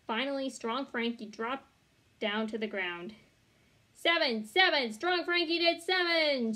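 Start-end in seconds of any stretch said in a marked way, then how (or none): 4.0-6.5 high, loud excited shout. A narrator's reading. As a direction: cheer the result out. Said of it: "shouted new Thelma".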